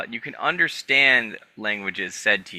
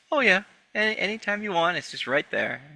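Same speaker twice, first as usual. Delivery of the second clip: game character's offer; 7 semitones higher than usual. Acted. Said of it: "and goes".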